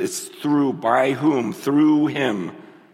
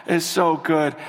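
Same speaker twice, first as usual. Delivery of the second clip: tender prayer. Retold or imitated.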